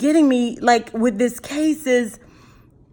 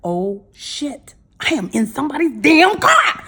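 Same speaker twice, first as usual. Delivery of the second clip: laughing realization. Retold or imitated. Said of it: "I was like".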